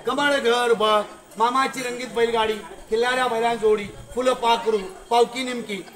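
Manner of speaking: put-on old primer recited from memory; schoolroom recitation. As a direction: recite like a first-grade reading lesson. Recites first school lessons for pupils.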